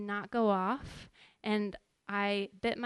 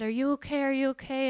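a touch louder, higher check on someone; retold urgent worry from a rescuer; urgent concern; 4 semitones higher, 4 dB louder, faster than usual. Firefighter rushing to crash victim.

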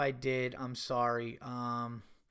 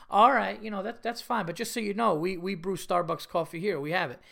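a hint of a patient Italian host, raised; Italian club owner; 3 semitones higher than usual. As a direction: lightly play the gracious Italian owner. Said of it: "it was so Italian and funny".

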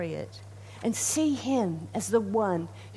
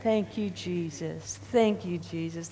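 slow thanks; 3 semitones lower than usual. Shown as a demonstration. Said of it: "Together we say".

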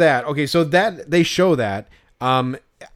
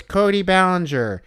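mock kid answer, pitched up; little kid; 5 semitones higher than usual. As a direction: answer like an interviewed kid, lightly imitated. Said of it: "And the kid goes".

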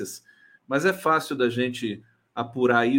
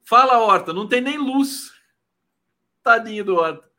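loud, higher playful greeting; excited greeting; 8 semitones higher, 7 dB louder than usual. Real, not acted. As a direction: call out to him cheerfully. Greets returning guest, teasing.

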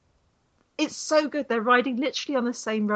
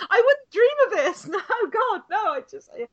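put-on bashful young rider; 12 semitones higher, 5 dB louder than usual. Junior rider's bashful denial, laughing.

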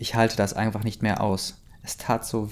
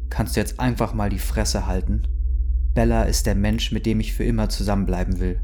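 fed-up Jack; 3 dB louder than usual. Acted. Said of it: "sagte Jack".

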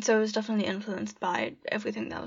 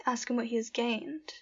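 poem reading. Acted. Reads her own poem aloud.

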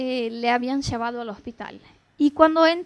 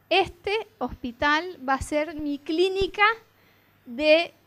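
bold declaration; 5 dB louder, slower than usual. Real, not acted.

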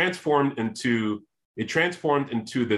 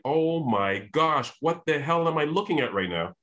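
freaking out; 6 semitones higher than usual. Retold or imitated. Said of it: "and I'm freaking out".

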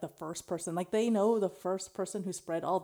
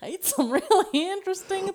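put-on Australian accent; 10 semitones higher, 5 dB louder than usual. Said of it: "That's my Australian".

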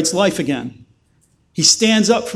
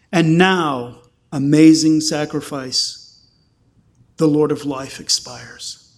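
solemn, measured hymn recital; poem reading. Acted. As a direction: read the old hymn with reverence. Reads a hymn poem aloud.

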